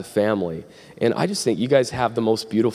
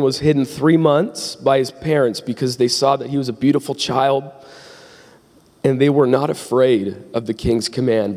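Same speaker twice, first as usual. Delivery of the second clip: measured, projected Bible reading; scripture reading. Acted. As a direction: read the verse out to a congregation. Reads scripture aloud to congregation.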